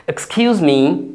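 slow model. Shown as a demonstration. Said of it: "আমার উচ্চারণগুলো খেয়াল করবেন।".

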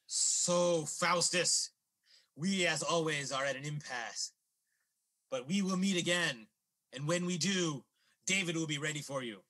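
measured, portentous warning; ominous. Acted. Old man warning Faustus of their next meeting, ominous. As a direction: pause gravely between phrases.

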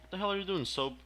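exasperated yell. Real, not acted. Yelling at game character.

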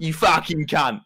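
slow, drawn-out British insult; hammed-up British swear, stretched out. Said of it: "British accents shouting British swear words".

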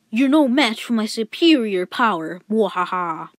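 boastful anime villain with evil laugh; Dragon Ball Z villain. Retold or imitated. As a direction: gloat like a cartoon villain. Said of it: "Last time on Dragon Ball Z".

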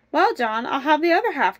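lively storybook wife answering back; lightly acted eager cry. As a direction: pipe up eagerly to claim a share. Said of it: "cried the good wife".

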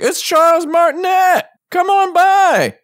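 loud, high excited call; high-pitched shout of welcome; shouting his name. Retold or imitated. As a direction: call him over like a fan. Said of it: "I was like".

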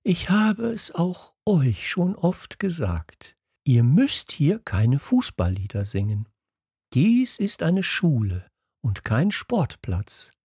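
high-pitched, slow, preachy gentleness; gentle teacher voice. A narrator's reading. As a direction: admonish the children slowly and sweetly. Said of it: "sagte er dann mit sanfter Stimme". (sanft mahnend, langsam und hoch)

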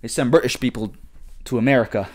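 badly faked British accent; clumsy mock-British, broken into short phrases; attempted British accent. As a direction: have a half-hearted go at British, word by word. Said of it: "I can't do an accent".

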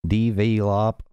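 "Develop" stretched into Southern DEE-vee-lop; overdone Southern "Develop" with long ee vowels; southern accent. Shown as a demonstration. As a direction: draw out each syllable of "Develop" in a Southern accent. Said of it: "I can't do this".

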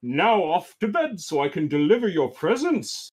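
lightly voiced jolly Santa. Santa sending children to bed, light jolly voice. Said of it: "cries Santa".

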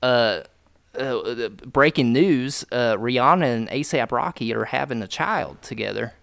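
hammy country announcer; country accent news. Pretend. Host reads celebrity news in put-on country accent. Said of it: "now I'm doing the fucking country accent".

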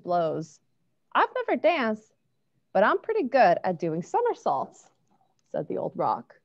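gentle storybook narration; reading to children. A narrator's reading. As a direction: read it like bedtime story. Reads a picture book aloud.

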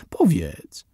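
unvoiced, coaxing whisper; urging whisper. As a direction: whisper the nudge close to his ear. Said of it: "ponagliła Eve". (Eve ponagla chłopca szeptem)

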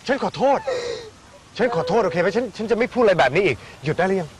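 grudging apology shouted to end the fuss; exasperated forced apology. Acted. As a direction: blurt out the apology in frustration.

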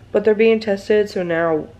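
groggy just-woke-up voice; sleepy morning voice. Real, not acted. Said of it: "like, my morning voice".

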